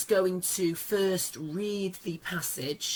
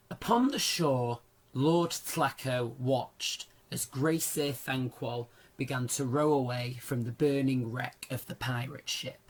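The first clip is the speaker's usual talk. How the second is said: story narration. Acted. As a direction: read the passage like an audiobook. Reads novel passage aloud.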